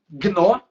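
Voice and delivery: gnomo said loud as gno, pause, mo; split into syllables. Shown as a demonstration. Teacher divides the word for students, gnomo in two separated syllables. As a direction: break gnomo after gno, loudly. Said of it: "Eu vou separar aqui".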